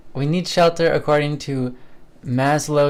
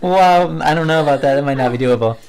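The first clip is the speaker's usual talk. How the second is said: amused disbelief; 2 semitones higher, 8 dB louder than usual. Real, not acted. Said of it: "That's, wow".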